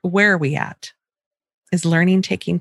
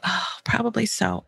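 soft, easy "probably so"; calm agreeing; 6 dB quieter than usual. Shown as a demonstration. Mother calmly agreeing with an upset child. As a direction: let it go gently. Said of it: "if I can be like".

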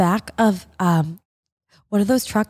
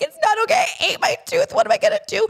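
very high, hammed-up wail; mock crying meltdown; faster than usual. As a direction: retell a tearful panic with a laugh in it. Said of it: "I start crying".

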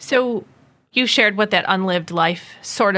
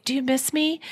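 teasing; 4 semitones higher, 4 dB quieter than usual. Retold or imitated. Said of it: "I will tease him and say".

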